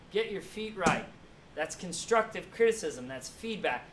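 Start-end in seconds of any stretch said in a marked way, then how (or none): 0.1-1.1 half-hearted mock coach yell; milder coach yell. Coach correcting footwork again, milder mock yell. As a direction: repeat the correction with less force. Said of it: "The lady's yelling at you".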